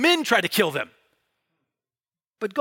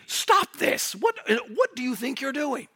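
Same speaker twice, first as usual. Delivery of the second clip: sharp, raised outcry of stop this; indignant rebuke; 6 semitones higher, slower than usual. Shown as a demonstration. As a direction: cry out at them to stop, outraged. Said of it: "We mean".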